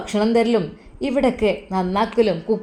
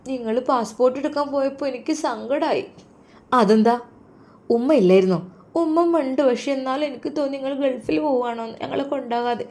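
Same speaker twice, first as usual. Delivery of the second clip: a sad little daughter, lightly higher; small girl telling her father she felt hurt; 4 semitones higher than usual. Acted. (സങ്കടത്തോടെ ചെറിയ മകളുടെ ശബ്ദം)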